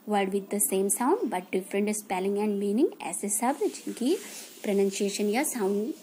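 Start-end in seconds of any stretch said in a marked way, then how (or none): 0.1-3.0 very slow, word by word, like dictating notes; slow dictation. Shown as a demonstration. Teacher repeating the definition for kids, slow. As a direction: spell the definition out slowly for copying. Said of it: "dictating definition slowly".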